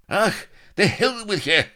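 very high, loud Irish shout; cornered Irish rogue shouting defiance at pirates; defiant Irish cry. Acted. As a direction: hurl defiance at the horde. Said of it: "cried Blood".

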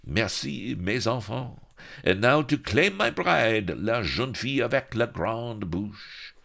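lightly high, composed pirate captain; a hint of a calm, gallant captain; distressingly sane. A narrator's reading. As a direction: thank the crew calmly, then claim her. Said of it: "sounding distressingly sane".

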